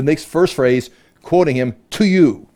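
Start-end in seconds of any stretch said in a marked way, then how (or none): 1.9-2.5 TO YOU set apart, pitched up high; emphatic. Acted. Satan opening his offer to Jesus, emphatic. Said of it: "And that is emphatic".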